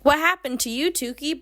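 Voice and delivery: coy pretend concern; mock flirting. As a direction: lightly imitate a flirt checking in. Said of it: "like, flirting with her".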